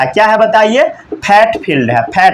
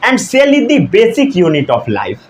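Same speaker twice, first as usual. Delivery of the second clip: slow dictation; much slower than usual. Shown as a demonstration. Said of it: "teacher dictating definition".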